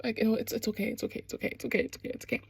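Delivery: hushed, comforting whisper; calm him down in a whisper; soothing whisper. Retold or imitated. Ilya comforting injured Shane, soft soothing whisper. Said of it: "he's like".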